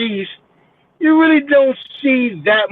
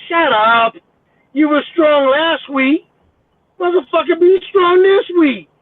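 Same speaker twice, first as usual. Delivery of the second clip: rising, higher exasperated scolding; scolding rant; 5 semitones higher than usual. Retold or imitated. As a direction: tear into them, pitch climbing. Scolding the panicked people.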